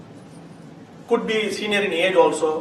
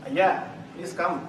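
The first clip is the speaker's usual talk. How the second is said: reluctant, unwelcoming; 5 dB quieter, slower than usual. Shown as a demonstration. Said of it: "Means, "Please don't come".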